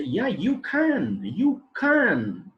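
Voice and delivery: "can" reduced, slow and drawn out; weak "can" in a sentence; weak form of can. Shown as a demonstration. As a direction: say "you can" with an unstressed "can". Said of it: "and not".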